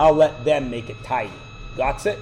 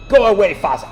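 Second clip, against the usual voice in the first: loud, higher mock Russian accent; 5 semitones higher, 7 dB louder than usual. Daughter sending her father away, mock Russian accent. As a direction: imitate a kid dismissing a parent in put-on Russian. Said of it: "speak to each other in Russian accents".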